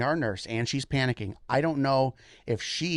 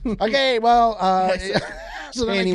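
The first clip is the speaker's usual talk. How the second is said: laughing through it; 8 semitones higher, 6 dB louder than usual. Retold or imitated. Awkward call with friend's dad.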